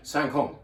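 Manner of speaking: "Saint-Côme" said the French way, the s silent; "Saint-Côme" with the silent letters skipped; French pronunciation. Shown as a demonstration. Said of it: "is what they would say".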